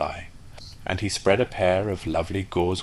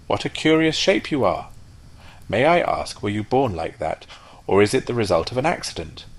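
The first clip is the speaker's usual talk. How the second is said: higher, nosy duck voice; curious duck; 3 semitones higher, 3 dB louder than usual. Acted. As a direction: ask with innocent wonder. Duck questions the rocket.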